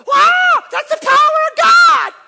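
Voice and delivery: very high, very loud mock shout; hammed-up amazed yell at a fall; mocking goofy Pentecostals, loud and high. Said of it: "you go".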